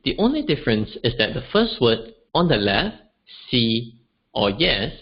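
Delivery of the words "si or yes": "si" low and level, slow; low flat tone. Shown as a demonstration. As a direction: hold "si" on a low flat note. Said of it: "is lower in pitch".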